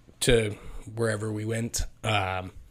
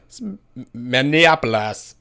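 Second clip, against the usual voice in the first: mock Minnesota accent; 5 dB louder than usual. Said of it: "I feel like they're like".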